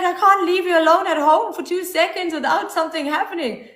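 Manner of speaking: high-pitched mock scolding; exasperated imitation. Retelling partner's scolding, then repeats plainly.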